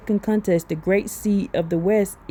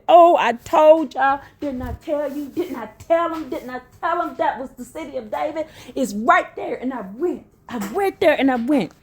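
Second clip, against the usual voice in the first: high, insistent I-told-you-so outburst; vindicated, voice pitched up in excitement; excited yelling; 4 semitones higher than usual. Real, not acted. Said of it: "I'm yelling, y'all".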